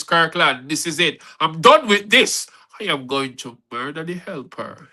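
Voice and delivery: acted temper, punched then dropping; fuming. Cheated woman tells Kirkland she is done, fuming. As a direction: recite her threat with a touch of rage. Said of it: "she was fuming in raging temper".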